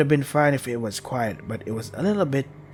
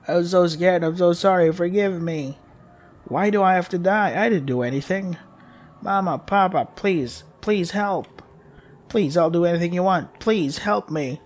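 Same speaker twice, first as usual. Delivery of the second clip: begging for life; 5 semitones higher than usual. Acted. Terrified child begging the monster to spare her, high and pleading. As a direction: plead desperately, voice climbing. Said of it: "I was begging for my life".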